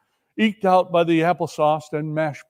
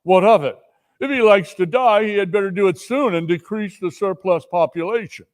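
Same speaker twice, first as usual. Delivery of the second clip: louder, mocking rebuke; cold rebuke; 5 semitones higher, 4 dB louder than usual. Spirit scorning Scrooge with his own words. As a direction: throw his own words back at him.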